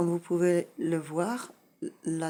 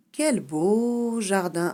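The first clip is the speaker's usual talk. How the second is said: exclamation; 3 semitones higher, 6 dB louder, slower than usual. Shown as a demonstration. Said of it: "exprime un sentiment".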